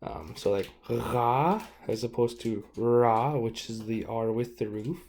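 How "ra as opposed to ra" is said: "ra" first with a rolling guttural R, then an English r; slow contrast of a throaty "ra" with a plain "ra"; throaty rolled R. Shown as a demonstration. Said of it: "a rolling R, R G sound".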